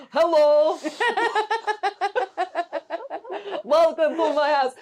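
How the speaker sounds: mock Slovak accent that drifts Russian; Slovak accent attempt. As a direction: put on a heavy Slovak accent, slipping into Russian. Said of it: "Sorry, I always go Russian".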